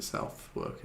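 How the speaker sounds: Southwark as spelt, "south-work"; mispronounced Southwark. Shown as a demonstration. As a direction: say both halves of Southwark fully, south plus work. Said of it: "I would have pronounced it".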